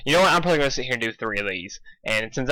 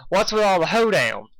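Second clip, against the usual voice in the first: cowgirl voice; 7 semitones higher, 4 dB louder than usual. Acted.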